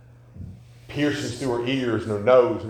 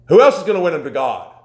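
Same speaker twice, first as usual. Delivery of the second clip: preaching shout; 5 semitones higher, 10 dB louder than usual. Acted. Preacher builds the question.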